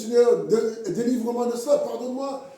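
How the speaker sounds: retold prayer. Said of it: "je crie à Dieu".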